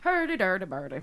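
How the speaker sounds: nonsense babble as mock Irish accent; bad Irish accent. Shown as a demonstration. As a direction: fake an Irish lilt on gibberish. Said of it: "Let's hear your Irish accent".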